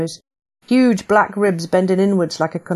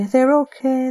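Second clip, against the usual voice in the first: higher, lighter with rising relief; relieved repeat; 7 semitones higher than usual. Acted. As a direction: say it again to believe it. Relief on hearing boys safe.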